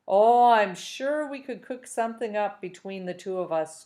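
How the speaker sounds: a touch of mischief, lightly voiced; hint at a scheme with a sly lilt; mischievous. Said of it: "replied mischievously".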